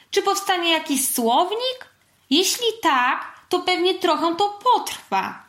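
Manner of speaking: high-voiced anxious questioning; worried. A narrator's reading. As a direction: fret over a pile of problems. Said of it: "zmartwiła się". (zmartwionym, wysokim głosem)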